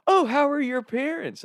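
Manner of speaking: very high, slow, sweetly nosy grandma; hammed-up cheerful old lady. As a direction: imitate grandma chirping up high. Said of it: "all cheerful".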